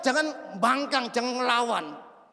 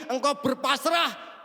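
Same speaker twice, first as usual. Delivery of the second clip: usual speaking voice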